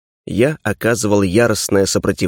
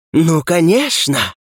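slow, higher, coaxing agreement; eager Darkness; 5 semitones higher, slower than usual. A narrator's reading. Darkness eagerly agrees, missing sarcasm. (охотное согласие тьмы, протяжно)

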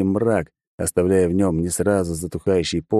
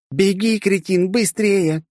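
urgent yell; 13 semitones higher, slower than usual. Acted. Girl yelling at the narrator to run faster. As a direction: shout him into running.

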